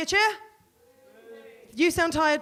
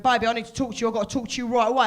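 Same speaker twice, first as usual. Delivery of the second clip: lightly voiced dad on the phone; confused dad impression; 4 dB louder, faster than usual. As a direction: press gently, a bit urgent. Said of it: "rang me up very confused".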